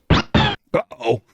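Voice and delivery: squeaky high-pitched uh-oh; silly sound effect. Pretend. A fun sound effect for the new follower, squeaky high uh-oh. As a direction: pitch it way up like a toy. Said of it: "let's have a fun sound effect for you".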